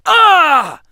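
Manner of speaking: sudden loud pained yell; hurt shout as the spear hits; wounded warrior crying out. A narrator's reading. Speared in the chest.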